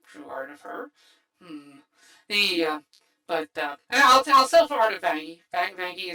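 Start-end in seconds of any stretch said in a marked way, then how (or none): 0.1-1.8 whispered aside. Real, not acted. Wistful hope for fan art.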